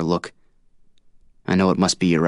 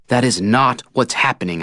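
heated and louder; said hotly; 6 semitones higher, 4 dB louder than usual. A narrator's reading. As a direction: snap back hotly. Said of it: "I say hotly".

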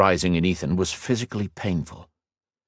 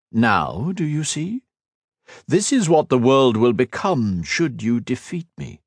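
sneering villain; 5 semitones higher than usual. Acted. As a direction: savour every cold word. Shinzan shows the ruins.

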